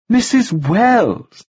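very slow, high, over-clear name; emphatic correction. A narrator's reading. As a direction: drill the name into him. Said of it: "he repeated".

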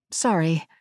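Englishwoman's voice, lightly put on; English accent. A narrator's reading. Woman cutting in through the drone, English accent. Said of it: "a woman with an English accent".

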